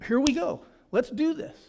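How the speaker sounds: high and loud, ready to go; pumped-up. Retold or imitated. Preacher acting out a pumped morning greeting, eager and loud. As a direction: fire yourself up for the day. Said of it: "It's to wake up and say".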